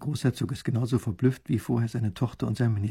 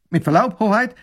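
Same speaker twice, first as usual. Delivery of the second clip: high, friendly and deferential; friendlier soldier; 9 semitones higher, 8 dB louder than usual. A narrator's reading. Soldier addressing the princess, much friendlier. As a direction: sweeten up for royalty. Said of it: "wird seine Stimme gleich viel freundlicher".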